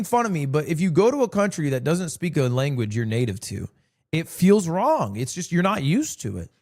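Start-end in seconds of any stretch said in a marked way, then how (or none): 4.1-5.1 "it feels wrong" said slowly, stretching "wrong" with a falling end; slow and deliberate. Shown as a demonstration. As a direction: draw it out word by word.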